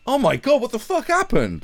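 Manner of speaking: high, loud panicked outburst; hammed-up shock, pitch shooting up; mock horror. Girl waking to a horrible discovery, mock panic. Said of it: "and be like".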